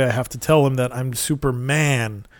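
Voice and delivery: "Superman" with the weight on "man", "super" kept light; stress on man. Retold or imitated. Superman resolving to face the grieving boy, stressing "man" in "Superman". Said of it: "emphasis on the man, not on the super".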